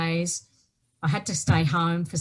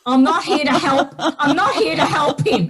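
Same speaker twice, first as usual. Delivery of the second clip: high, loud, tearful and half laughing; retold tearful cry; 8 semitones higher, 6 dB louder than usual. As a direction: relive the panic through tears and a laugh. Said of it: "and I'm crying".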